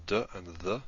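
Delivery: "d" as a stop, then "the" with voiced th; d versus th. Shown as a demonstration. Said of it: "as in the th in the".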